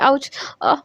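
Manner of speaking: soft fake "ouch" and gasp; put-on pain moan. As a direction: pretend it hurts, understated. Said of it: "जानबूझ के Trisha acting करती है". (दर्द की हल्की एक्टिंग)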